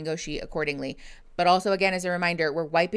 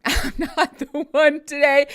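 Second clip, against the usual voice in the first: higher, louder and slower, laughing through it; laughing emphatic repeat; 8 semitones higher, 7 dB louder than usual. Shown as a demonstration. Streamer warning chat she is not the one, laughing and louder. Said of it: "I'm asking kindly from the outset".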